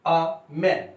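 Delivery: "a man" with a said as आ; "a" pronounced aa, not ay, in "a man"; article A as AA. Shown as a demonstration. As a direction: open "a" into an आ sound before man. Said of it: "आ से pronounce होगा".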